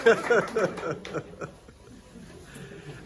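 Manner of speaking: high cheer with laughter; delighted laughter. Real, not acted. Candles blown out, cheering.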